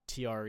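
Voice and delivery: tr as a bare English consonant blend; wrong English tr. Shown as a demonstration. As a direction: say tr with an English r and no vowel. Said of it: "that's pronounced not tr".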